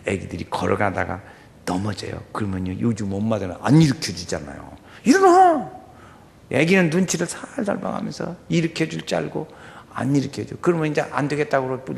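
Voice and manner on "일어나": high, loud mother's command; firm mother. Retold or imitated. Mother ordering her fallen toddler to get up. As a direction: bark it like a firm mom.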